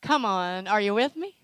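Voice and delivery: loud, insistent call to the crowd; rousing call. Real, not acted. Preacher rousing the congregation for an answer, loud call. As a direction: push it out to get a response. Repeats louder to rouse congregation.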